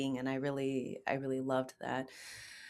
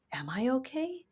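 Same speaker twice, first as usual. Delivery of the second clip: inner doubt; 5 semitones higher than usual. Retold or imitated. Quoting her inner doubt.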